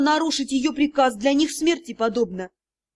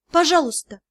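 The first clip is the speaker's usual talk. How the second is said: pleading; 3 semitones higher than usual. Acted. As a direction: beg him outright. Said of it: "я с мольбой посмотрела".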